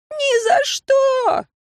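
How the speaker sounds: very high, slow, drawn-out shriek of no; student refusing to let go of the branch; panicked refusal. Acted. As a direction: refuse in terror.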